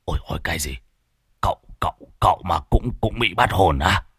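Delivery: put-on hushed, shaken stammer of a frightened old sorcerer; a quiet, startled stutter in fear; terrified gasp. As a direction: gasp it out softly, scared stiff. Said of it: "khiếp sợ trợn mắt".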